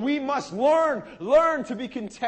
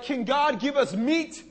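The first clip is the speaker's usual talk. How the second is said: mocking whine; 2 semitones higher than usual. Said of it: "they were mocking God".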